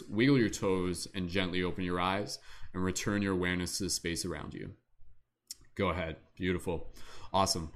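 guided meditation. Acted. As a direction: lead the group gently into calm breathing.

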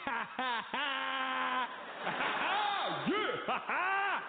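high, loud hammed-up laughing in a black American accent; greeting strangers in the airport, laughing loud in a put-on black American accent; mock black American laugh. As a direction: show off the new cool laugh. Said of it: "I was even laughing".

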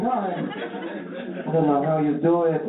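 high-pitched imitation of his mom, dismissive; lightly voiced mom laughing it off; high mock mom voice. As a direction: ham up a scolding mom brushing it off.

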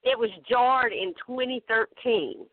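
slightly tipsy, loosened speech; a little buzzed on moonshine. Real, not acted. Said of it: "I can tell by the way I'm talking already".

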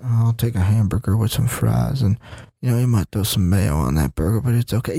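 low, monotone coach impression; Bill Belichick. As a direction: order lunch in a deep, dull coach voice. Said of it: "Yeah, that's Bill Belichick".

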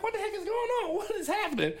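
high, bewildered, laughing through it; high laughing confusion; baffled. Retold or imitated. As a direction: act stunned in the theater. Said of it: "I'm like".

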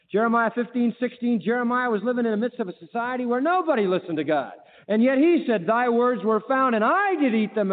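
fervent scripture proclamation. Acted. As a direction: lift the voice and proclaim the verse. Preaching with raised voice.

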